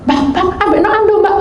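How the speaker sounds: high, fast urgent call; panggilan panik tiruan. Retold or imitated. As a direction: call out in a mock fluster. Calling urgently for a towel. (memanggil buru-buru dengan nada tinggi)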